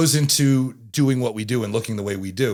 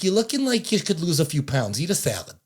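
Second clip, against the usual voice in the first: put-on Italian-accented granny nagging, pitched up at first; Italian grandmother; 5 semitones higher than usual. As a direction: imitate an Italian grandmother scolding lightly. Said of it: "it's definitely an Italian grandmother".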